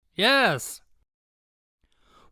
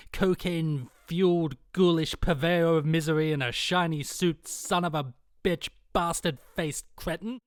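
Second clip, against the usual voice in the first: low, seething insults; contemptuous rant; 5 semitones lower, 6 dB quieter than usual. Acted. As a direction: spit out the contempt. Mother's escalating rant about agents.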